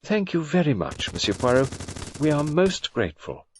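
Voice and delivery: gracious and sweet, a touch high; polite society lady thanking him graciously; utmost graciousness. Acted. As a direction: lay on the graciousness for the detective. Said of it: "spoke with the utmost graciousness".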